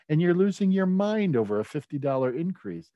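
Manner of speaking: exasperated disbelief, voice lifted high. Real, not acted. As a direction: throw up your hands at them, pitch up and push. Exasperated at neighbors' overreaction.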